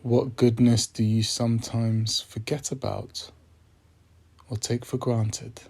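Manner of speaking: measured meditation voice with long pauses; unhurried, reflective prompts, phrase by phrase; guided meditation. Acted. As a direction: guide listeners gently, leaving space after each phrase.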